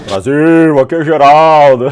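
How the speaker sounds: booming echo off the walls; loud in an empty room. Real, not acted. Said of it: "Olha o eco".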